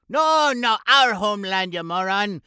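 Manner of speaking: loud, annoyed correction; angry retort. Acted. Host scolding sidekick for a dumb guess, loud and annoyed.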